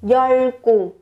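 teacher pronouncing 열공 for students; Korean word demo. Shown as a demonstration. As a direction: model 열공 for learners in careful Korean. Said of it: "Tiếp theo là có từ 열공".

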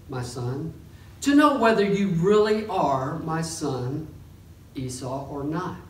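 measured Bible reading voice; scripture reading. Acted. Pastor reading Genesis aloud to the congregation, measured reading. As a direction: read the passage with steady reverence.

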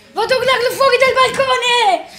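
high excited laughing cry; laughing excitedly. Real, not acted. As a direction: laugh while announcing it. Celebrating, laughing.

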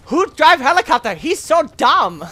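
mock the gawking soldiers; mocking enemies. Imagining enemies below mocking his flying in a high voice. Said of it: "They're probably looking up like".

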